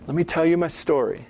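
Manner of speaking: soothing, hushed "Just relax" to a data person; coaxing storyteller. Retold or imitated. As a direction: gently coax a reluctant listener. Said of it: "It's like".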